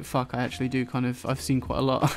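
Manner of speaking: ordinary talk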